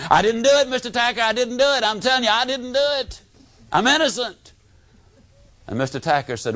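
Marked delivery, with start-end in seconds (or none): 0.1-4.5 put-on higher, pleading kid insisting he's innocent; a lightly voiced boy begging to be believed; protesting innocence.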